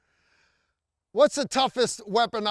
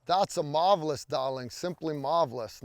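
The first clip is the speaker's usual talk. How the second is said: put-on glamorous old hollywood star; 3 semitones lower than usual. Campy compliment to the shot.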